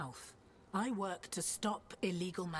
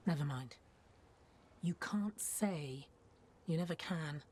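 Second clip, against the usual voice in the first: muttered aside; 3 semitones lower than usual. Acted. Rana answers her own question.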